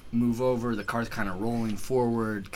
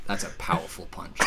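put-on Australian accent; 2 semitones lower, faster than usual. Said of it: "say it with an Australian accent".

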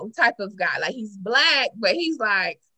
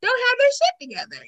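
exasperated; 12 semitones higher than usual. Retold or imitated. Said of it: "She was like".

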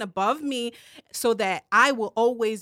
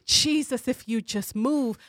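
mock crying prayer. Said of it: "look like".

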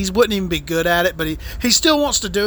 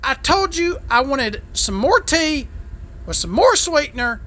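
angry yell; 7 semitones higher than usual. Retold or imitated. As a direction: blow up at the waiter. Angry outburst at waiter.

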